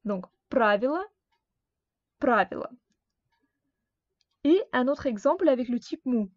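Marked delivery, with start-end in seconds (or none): 0.5-2.7 правило with the final o said as a, stress on the first syllable; unstressed o as a. Shown as a demonstration. Teacher showing students the final o of правило sounds like a. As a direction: say правило so its last vowel sounds like a. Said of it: "on la prononce comme a".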